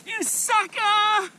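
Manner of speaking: high, slow gloating taunt; gleeful gloat. Real, not acted. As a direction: drag it out gloating. Fish hooked, gloating.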